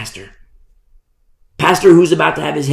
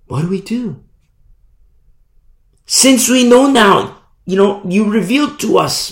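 eager crowd question; 6 semitones higher than usual. Acted. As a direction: ask Paul urgently what to do. Crowd asks Paul what to do.

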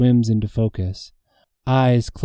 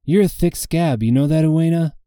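teasing grin; 6 semitones higher than usual. Acted. I grin despite myself.

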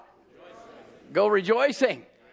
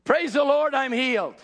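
lifted praise, rising on Praise; a touch of triumphant praise; joyful confession; 5 semitones higher than usual. Shown as a demonstration. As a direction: proclaim it like it's already done. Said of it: "let's be, you know".

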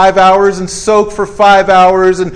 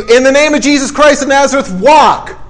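raised-pitch proclamation landing on a firm order; commanding; 4 semitones higher than usual. Acted. Peter to a man paralyzed for years, commanding. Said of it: "Talking about the prayer of command".

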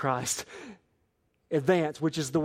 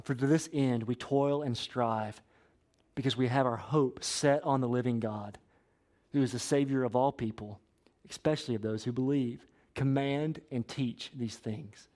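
scripture reading; 3 semitones lower than usual. Acted. Reads scripture aloud slowly.

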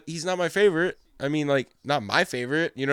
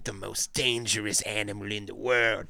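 mock nature host; 6 semitones lower, 6 dB quieter than usual. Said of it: "He's like".

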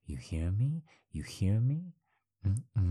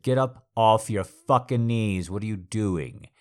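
loud, rising furious command; angry shout; 4 semitones higher, 8 dB louder than usual. Acted. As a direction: shout the order, building higher. Angry order to get up.

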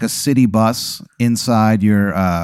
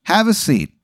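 Jay Crow voice; 9 semitones higher than usual. Acted. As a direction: ham up the pirate driver, breaking into laughs. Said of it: "He goes".

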